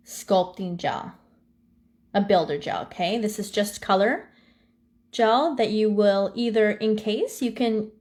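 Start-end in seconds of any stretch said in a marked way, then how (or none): 5.1-7.9 talking while holding breath. Real, not acted. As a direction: squeeze the words out on held air. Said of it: "holding my breath".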